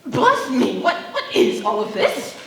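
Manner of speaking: surprised exclamation. Acted. Aunt bursts in on the couple.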